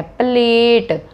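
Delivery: "प्लेट" drawn out slowly on its long "ay" vowel; long A sound. Shown as a demonstration. Teacher demonstrating long vowels, slow long A in "प्लेट". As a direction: stretch the A in "प्लेट" so it says its letter name. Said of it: "ए को हम ए ही बोल रहे हैं".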